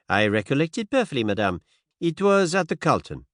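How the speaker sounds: gentle French-tinged Poirot. Acted. Poirot voiced in story.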